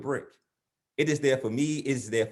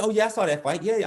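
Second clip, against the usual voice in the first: oblivious dad; 7 semitones higher, faster than usual. Acted. Oblivious dad recalls the fight.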